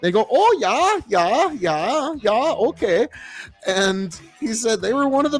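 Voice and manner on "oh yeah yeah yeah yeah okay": eager prisoners. Retold or imitated. Prisoners agreeing to pantomimed instructions.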